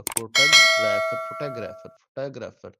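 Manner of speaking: फोटोग्राफर repeated as one word, "fuh-ta-grapher"; English pronunciation. Shown as a demonstration. Teacher modelling English speech for students, फोटोग्राफर run together. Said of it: "तो वो इसी तरह बोलेगा".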